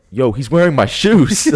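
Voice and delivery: retelling the moment he spots the thief wearing his shoes, laughing; laughing disbelief. Retold or imitated. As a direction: spell out the shock through a laugh. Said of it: "I look down and I'm like".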